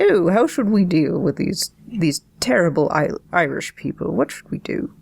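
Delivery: lightly voiced posh snob, fading to a hushed whisper; a hint of a fretting English gentleman, trailing off unvoiced; horrid British snob. Host mocks a British reader of Swift, lightly voiced snooty whisper. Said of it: "impression, I guess, of some horrific British English person".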